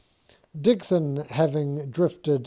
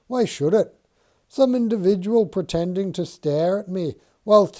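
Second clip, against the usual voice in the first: higher, louder mocking banter; amused Mason; 5 semitones higher, 5 dB louder than usual. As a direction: needle him with amused scorn. Mason mocking Dixon's trance.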